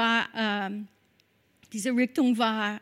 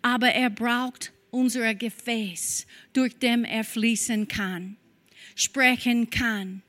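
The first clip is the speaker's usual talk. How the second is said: louder, fervent preaching to the congregation; 4 dB louder than usual. Acted. Pastor urging the congregation, fervent louder preaching. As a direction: push the promise out to the whole room.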